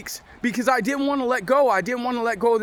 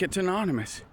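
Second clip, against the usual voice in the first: imitating the officer, low and soft; a soft, falling mock-official answer; low-key retold answer; 3 semitones lower, 6 dB quieter than usual. Officer tells inmate the kite's source, low and matter-of-fact.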